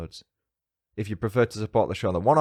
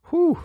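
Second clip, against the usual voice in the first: high, loud whew; 7 dB louder than usual. Real, not acted. Host teasing the last review to listeners, high whew.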